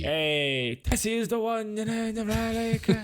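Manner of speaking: a lightly hammed-up Boston accent; playful Boston accent voice. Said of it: "in Boston accent".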